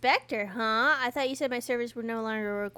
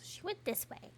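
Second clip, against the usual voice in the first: whispering; 7 semitones higher, 12 dB quieter than usual. Real, not acted. Sneaking through a mystery scene.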